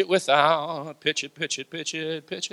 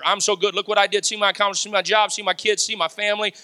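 mock bragging; 2 semitones higher, faster than usual. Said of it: "There's no bragging around here".

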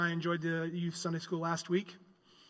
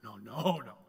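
Israelites denying; 4 semitones lower, 4 dB quieter than usual. Retold or imitated. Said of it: "Israel in their shoes".

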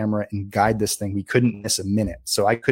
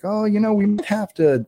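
worried warning; 10 semitones higher than usual. Retold or imitated. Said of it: "It was like".

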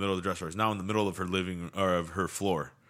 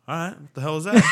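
loud, high-pitched startled question; acted-out alarm, pitched way up; startled retelling; 9 semitones higher, 11 dB louder than usual. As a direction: shout it as if startled by a noise. Retelling his reaction to thumps.

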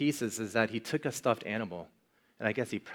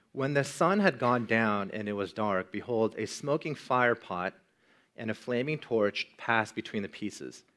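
scripture reading. Acted. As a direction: read the verse steadily, like from the pulpit. Reads verse seventeen aloud.

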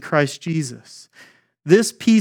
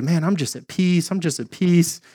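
glib fake calm; 3 dB quieter than usual. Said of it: "we float through life and say".

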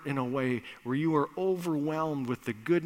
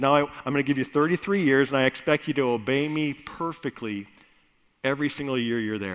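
louder, quick stern orders; commanding Father; 5 dB louder, faster than usual. Acted. God instructing his son, louder and commanding. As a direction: lay down the terms firmly.

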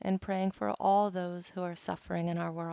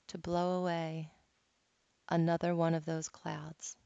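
guided meditation. Acted. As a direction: guide them gently through each breath. Leads a guided cloud meditation.

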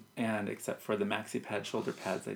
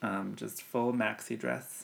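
unvoiced, slow whispered aside; whispering; 5 dB quieter, slower than usual. Real, not acted. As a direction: whisper it like a secret.

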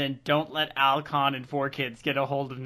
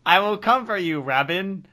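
loud, higher demonic bellow; 3 semitones higher, 6 dB louder, faster than usual. Acted. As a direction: roar it like a possessed demon. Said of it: "That's my demon voice".

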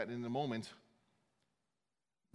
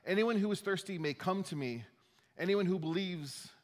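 mild proclaiming shout; 5 semitones higher than usual. Retold or imitated. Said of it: "shouted to the crowds".

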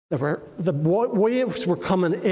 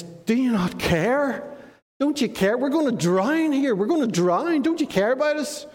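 higher, pleading cry for help; desperate plea; 5 semitones higher than usual. Retold or imitated. Frightened disciple begs the waking Jesus, pitch up. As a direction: beg him to care, rising with panic.

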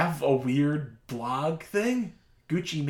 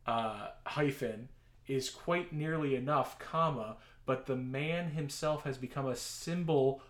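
dictating; 2 semitones higher, 4 dB louder than usual. Shown as a demonstration. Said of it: "I'll tell the punctuation as I read it".

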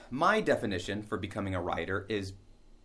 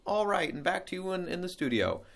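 higher anchor sign-off that settles down; newscaster sign-off; 8 semitones higher than usual. Acted. Reporter handing back to the studio in a higher on-air voice. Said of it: "that voice".

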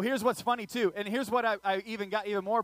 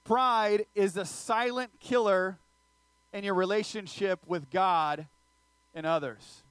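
emphatic slow; slower than usual. Shown as a demonstration. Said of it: "here is the big idea tonight".

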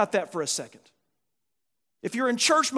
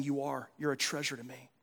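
low, hushed voice of God, tenderly; quiet, intimate words of God's love; tender divine reassurance; 6 semitones lower, 6 dB quieter than usual. Acted. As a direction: speak softly and low, cherishing the listener. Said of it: "God's voice is saying".

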